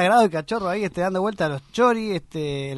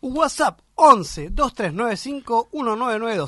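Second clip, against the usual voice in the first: slow dictation; 5 semitones higher, slower than usual. Real, not acted. Dictating phone number to listeners.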